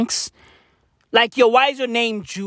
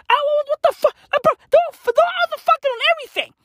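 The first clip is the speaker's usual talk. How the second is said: exasperated outburst; 4 dB louder, much faster than usual. Acted. Exasperated outburst about Bridgerton.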